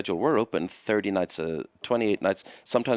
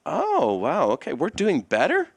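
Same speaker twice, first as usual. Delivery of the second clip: mock surprise; 8 semitones higher, slower than usual. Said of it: "those artists feel like".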